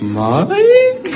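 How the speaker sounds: high, rising call full of fear; mock terrified call of a name. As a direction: call out like you're about to be mauled. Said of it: "the voice of someone who was about to be mauled".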